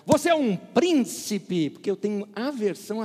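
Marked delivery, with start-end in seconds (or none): 0.1-1.7 mild mocking. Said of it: "eu não gosto da expressão".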